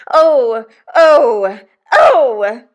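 loud wailed cries of outrage; three hysterical, high, loud wails; shrieks. A narrator's reading. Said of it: "Each of these exclamations was a shriek".

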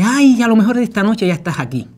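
high, loud hopeful wife's voice. Retold or imitated. Wife telling her husband on the phone, high and hopeful. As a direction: imitate her eager hope.

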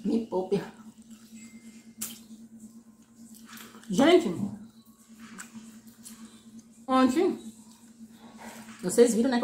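chewing while talking; biting food mid-sentence; mouth full. Real, not acted. Seen 3: bites and chews chicken on the bone between laughs and words.

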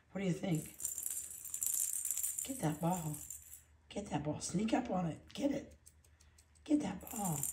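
soft puppy-talk urging; soft coaxing. Real, not acted. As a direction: quietly egg the puppy on at play. Egging puppy on at play.

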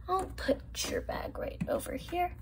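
soft breathy whisper. Pretend. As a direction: whisper so she won't wake. Friend asleep, quietly moving bags.

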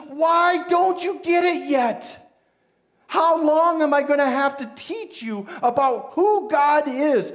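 frustrated teacher's shout; angry Jesus. Acted. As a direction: scold the disciples. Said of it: "gets angry with his disciples".

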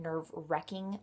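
"nerve-wrecking" with an e as in neck; mom's WRECK pronunciation. Retold or imitated. Vlogger recalling her mom's word, "nerve-wrecking" with an e. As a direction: say "nerve-wrecking" as mom did, middle like wreck. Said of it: "with my mom's Hispanic accent, she always said".

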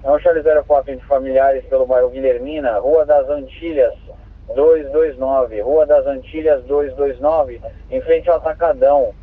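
crackly two-way radio transmission; squelchy handheld radio; police radio. Real, not acted. Dispatcher gives address over radio.

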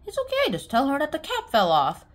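put-on high-pitched childlike voice; acted reassurance. Girl offers boy an excuse.

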